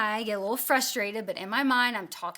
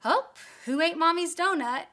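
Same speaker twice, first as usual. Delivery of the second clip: higher, louder playful teasing ask; joking question; 7 semitones higher, 5 dB louder than usual. Retold or imitated. Mom jokingly asks the family who ate her donut. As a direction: toss it out lightly as a joke. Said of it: "I jokingly ask".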